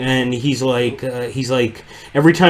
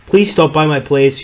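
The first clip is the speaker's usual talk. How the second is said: second attempt at a South African accent, slightly higher and louder; 4 semitones higher, 5 dB louder than usual. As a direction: lightly imitate a South African fellow's accent. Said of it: "trying to recreate a South African".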